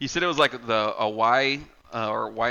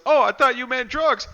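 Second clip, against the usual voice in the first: mock Elmer; 12 semitones higher, 4 dB louder than usual. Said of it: "He goes".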